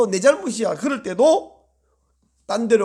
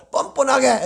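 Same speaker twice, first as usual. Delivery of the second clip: loud congregational shout; 3 semitones higher than usual. Shown as a demonstration. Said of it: "큰 소리로".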